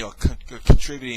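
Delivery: tripping over the start of a word; stuttering. Real, not acted. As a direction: stumble on the word, then restart it. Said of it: "Sorry for stuttering".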